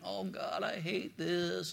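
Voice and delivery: a soft, pleading murmur to God; hushed prayer. Retold or imitated. Preacher retelling his prayer, quiet and pleading. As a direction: pray it quietly, almost to yourself.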